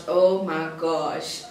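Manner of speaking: long, drawn-out exasperation; slow retold show of exasperation; exasperated. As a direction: stretch it out in weary disbelief. Exasperated at sulking boyfriend.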